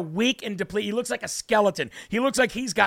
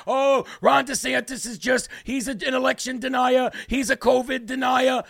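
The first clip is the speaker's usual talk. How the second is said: mock Fauci voice; 3 semitones higher than usual. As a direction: mimic him as a whiner. Imitating Fauci mockingly.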